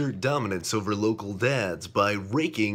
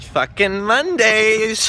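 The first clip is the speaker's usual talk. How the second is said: slow angry groan; 12 semitones higher, 6 dB louder, slower than usual. Acted. Slow drawn-out curse.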